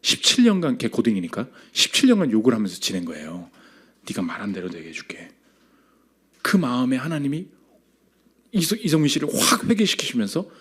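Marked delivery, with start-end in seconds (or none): 4.1-5.3 very low, hushed voice of God; soft, deep divine pronouncement. Retold or imitated. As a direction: murmur it as an ominous promise from God. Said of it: "갑자기 그 두려움을 확 주시는 거예요".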